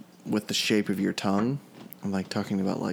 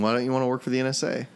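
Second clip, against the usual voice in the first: movie interviewer; 3 semitones higher, faster than usual. Acted. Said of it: "Good Will Hunting".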